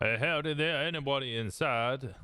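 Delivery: put-on friendly Southern cop calling out, American Southern accent. Cop calls into a house, in a put-on Southern accent. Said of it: "I'm clearly English doing a Southern accent".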